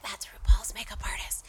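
hushed whisper of gossip; whispered quote. Retold or imitated. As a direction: whisper it behind his back. Julie quoted at the bar.

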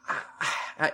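mock hyperventilating. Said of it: "start hyperventilating".

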